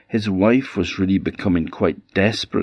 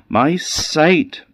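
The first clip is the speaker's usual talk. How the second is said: pleading; 9 semitones higher than usual. A narrator's reading. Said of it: "pleaded his mother".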